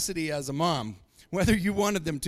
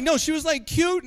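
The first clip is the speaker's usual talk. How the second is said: mock friend voice; 9 semitones higher, 7 dB louder than usual. Voicing the friend in an anecdote.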